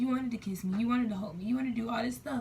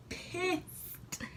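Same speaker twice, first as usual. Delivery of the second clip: hushed emphasis; 8 semitones higher, 6 dB quieter than usual. Real, not acted. Naming her anger.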